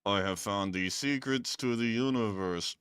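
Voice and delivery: lightly voiced grand declaration; a hint of mock wisdom; a touch of a dramatic sage. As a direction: announce a great discovery. Voicing Steven's quote.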